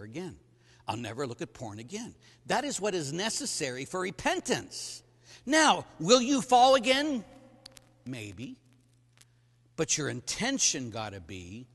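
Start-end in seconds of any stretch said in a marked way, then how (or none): 5.5-7.2 challenging question. Real, not acted. Preacher challenges the men.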